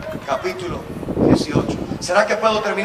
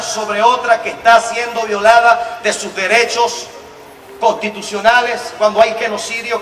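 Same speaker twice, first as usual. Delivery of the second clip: reading a definition; 4 dB louder than usual. Shown as a demonstration. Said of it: "y decía algo así".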